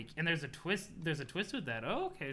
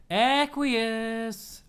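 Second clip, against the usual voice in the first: loud summoning call, slightly put-on voice; 5 semitones higher, 8 dB louder than usual. Troll calling a teammate over, loud call. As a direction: yell the name across the room. Shouts a character's name.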